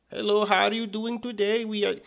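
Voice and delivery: lightly put-on Indian accent; mock an Indian accent in a hypothetical greeting; imitated Indian-accented greeting. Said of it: "put on an Indian accent".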